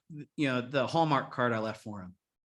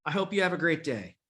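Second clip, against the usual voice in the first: warm goodbye; 5 semitones higher than usual. Retold or imitated. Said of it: "I'm like".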